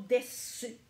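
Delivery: desu avec le u légèrement prononcé. Shown as a demonstration. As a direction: dites desu en faisant entendre le u. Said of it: "Vous pouvez prononcer le U". (desu avec un petit u à la fin)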